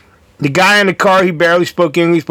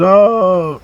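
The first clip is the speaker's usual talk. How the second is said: mock Australian exclamation, pitched up; lightly put-on Australian accent; Aussie accent; 4 semitones higher than usual. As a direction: imitate an Aussie reacting, drawn out. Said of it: "Aussie accent".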